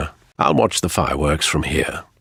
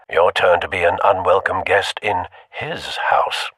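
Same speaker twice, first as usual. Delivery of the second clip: whispered. Shown as a demonstration. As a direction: breathe the threat out in a whisper. Another whispered take.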